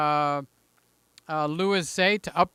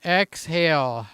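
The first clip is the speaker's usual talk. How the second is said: calming himself; much slower than usual. Real, not acted. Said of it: "Just calm down".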